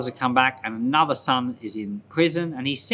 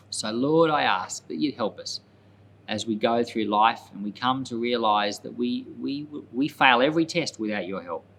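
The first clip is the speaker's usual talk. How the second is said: closing prayer. Real, not acted. Teacher closing the Bible lesson prays for the listeners, sincere prayer. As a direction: pray it simply and sincerely, head bowed.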